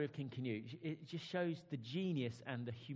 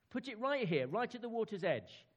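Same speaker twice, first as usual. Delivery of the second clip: higher, louder royal order; commanding king; 9 semitones higher, 6 dB louder than usual. Acted. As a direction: command them where to put it. King ordering chair placed.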